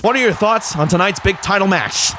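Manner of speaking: lightly voiced interviewer impression; hint of a backstage announcer; Michael Cole. Backstage interviewer asking about the title match, lightly put-on announcer voice. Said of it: "That's apparently my Michael Cole impression".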